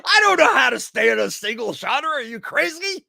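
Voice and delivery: high, loud, still laughing; laughing mock outrage. Real, not acted. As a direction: protest through giggles.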